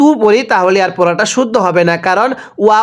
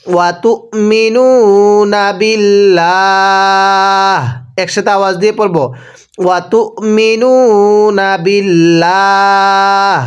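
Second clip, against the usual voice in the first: slow chanted tajweed recitation; Quran recitation; much slower than usual. Shown as a demonstration. Teacher recites the verse for students to repeat. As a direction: recite slowly, each vowel drawn out. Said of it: "পড়ুন".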